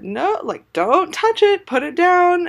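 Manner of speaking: high, loud order, rising in urgency; alarmed parental yell. Retold or imitated. Mom seeing the puddled flip-flop, high urgent yell. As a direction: act out a frantic command to stop.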